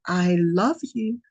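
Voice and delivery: slow, deliberate tender words; slow and meaningful; intentional. Retold or imitated. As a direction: say it with full intention, slowly. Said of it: "She was very intentional".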